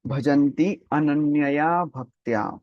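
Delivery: ananyaya drawn out slowly for emphasis; emphatic recitation. Shown as a demonstration. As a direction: dwell on the word ananyaya, stretching it. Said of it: "Prabhupada is emphasizing that word".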